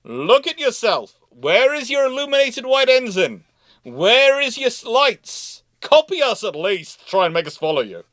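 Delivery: shrill scolding British voice; taunting British sailors. Retold or imitated. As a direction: taunt them as a know-it-all crew. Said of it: "the British are going".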